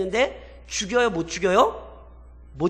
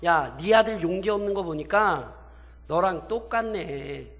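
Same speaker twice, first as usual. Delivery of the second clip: mock jibe with a drawn-out ending; sarcastic; 3 semitones lower than usual. Captive kings mocking Gideon over his timid son, sarcastic. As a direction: taunt him, stretching the final comparison. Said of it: "비꼬는 거예요".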